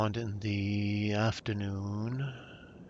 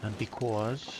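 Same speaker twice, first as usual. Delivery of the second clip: "because" slipping into a Brooklyn accent; a failed British try that comes out Brooklyn; mild accidental Brooklyn accent; 2 semitones higher than usual. Shown as a demonstration. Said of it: "no, that's Brooklyn again".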